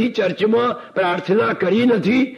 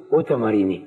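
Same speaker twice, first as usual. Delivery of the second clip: lowered exclamation; 11 semitones lower than usual. Acted. Exclamation of disbelief.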